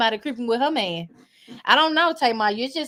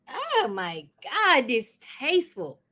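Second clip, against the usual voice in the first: slow disgusted verdict; 3 dB quieter, slower than usual. Real, not acted. Disapproving reaction.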